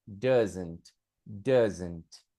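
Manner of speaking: "Doesn't" said slowly and clearly as /dazent/, DUZ-ent; careful pronunciation. Shown as a demonstration. Teacher models "Doesn't" for students, sounding out each part. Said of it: "Observe a pronúncia".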